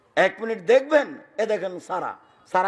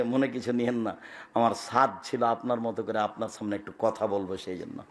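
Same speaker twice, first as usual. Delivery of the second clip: softer, sheepish apologetic laugh; laughing apology; 10 semitones lower, 7 dB quieter than usual. Retold or imitated. Stranger sheepishly apologizing to the preacher, softer with a laugh. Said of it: "হেসে বলছে".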